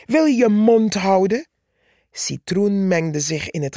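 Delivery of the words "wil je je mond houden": angry shout. Acted. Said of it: "schreeuwde Purperhart".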